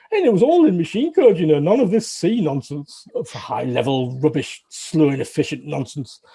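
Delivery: mock grumpy old-timer ranting about modern code; a hint of a crusty veteran, slow dismissive scorn; old man grumbling. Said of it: "I sound like a sort of a very old man".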